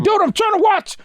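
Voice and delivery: high, exasperated complaint; mock mad. Annoyed viewer to noisy talkers, mock mad. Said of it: "you get mad at 'em".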